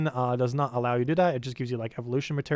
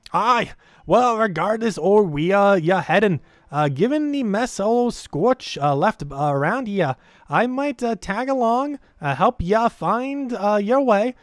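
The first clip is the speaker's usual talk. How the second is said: louder, higher Scottish-style dwarf brogue; dwarf accent; 6 semitones higher, 5 dB louder, slower than usual. Acted. Player reading a dwarf companion's lines aloud in a hearty dwarf accent. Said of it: "I can so easily talk with that accent".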